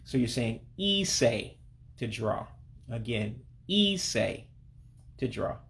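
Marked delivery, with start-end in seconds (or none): 0.8-1.5 ise said slowly as ee-say. Shown as a demonstration. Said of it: "makes an A sound in English". 3.7-4.1 ise drawn out as ee-say; slow pronunciation model of ise, ending in ay. Shown as a demonstration. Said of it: "makes an A sound in English".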